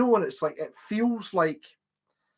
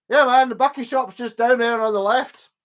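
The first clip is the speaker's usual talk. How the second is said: put-on Newcastle accent; 7 semitones higher, 5 dB louder than usual. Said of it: "a Newcastle accent".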